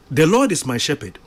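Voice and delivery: rattled off quickly without thought; said too fast. Shown as a demonstration. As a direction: rush through it like a memorized line. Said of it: "maybe we say it too fast".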